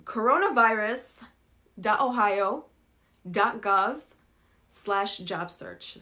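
web address read slowly, word by word; slow dictation. Shown as a demonstration. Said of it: "بدي مرة تانية بدي أقول عن الويب سايت".

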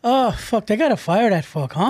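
wobbly mock British-Irish grumble; British accent slipping toward Irish. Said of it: "you're turning Irish".

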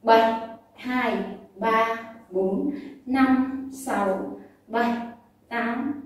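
called beat counting; counting workout reps. Shown as a demonstration. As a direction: count the rhythm aloud. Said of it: "Đếm nhịp sẽ như sau này".

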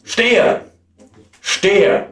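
theatrical dismay in broken, paused phrases; distressed poem recitation. Acted. Apprentice has forgotten the word as water pours in, dismayed recitation. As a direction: lament it as the spell runs away.

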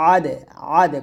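আদে with a bouncing release of দ; qalqala. Shown as a demonstration. Teacher drilling qalqala, আদে with echoed ending. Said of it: "কলকলা".

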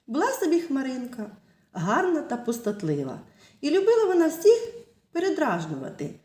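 put-on lively storytelling voice for little kids; fairy tale narration. Teacher telling children a fairy tale, lively storytelling. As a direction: tell it like a bedtime tale.

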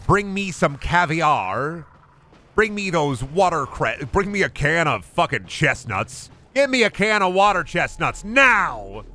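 haughty critic demanding caviar; snobby food critic. Retold or imitated. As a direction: play a spoiled, pompous diner. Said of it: "Man's be like".

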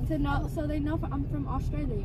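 put-on British accent, claiming to be Australian. Telling them she's from Australia, in a put-on British accent. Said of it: "I'm gonna talk in my British accent".

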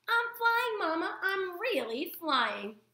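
high, slowing squeaky cry of delight; calling to mother mid-flight; thrilled little bird; joyful gosling. Acted.

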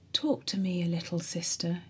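pitiful whispered plea; dying patient whispering to his nurse; pathetic whisper. Retold or imitated. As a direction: whisper it like a lonely sick boy begging for company. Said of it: "he would say pathetically in a strange, refined voice".

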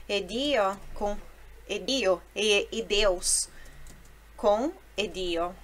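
edio said slowly as one word; slow linked edio. Shown as a demonstration. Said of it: "a palavra se torna quase única".

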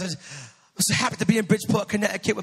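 imitating a pastor's British accent. Quoting a visiting pastor's greeting to the congregation, imitated British accent. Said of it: "he has this great British accent".

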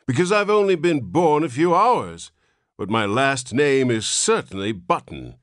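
put-on high, whining old man's voice; a newborn old man complaining in a reedy whine; querulous whine. A narrator's reading. Old man whining at his father, querulous. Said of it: "replied the querulous whine".

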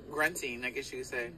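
usual speaking voice

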